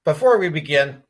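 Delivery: talking with a mouth full. Real, not acted. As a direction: speak through a bite of food. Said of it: "Caught me with my mouth full here".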